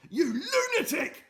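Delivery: high laughing sneer; mocking laugh. Mister Gum mocking Friday, laughing. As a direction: laugh it in his face.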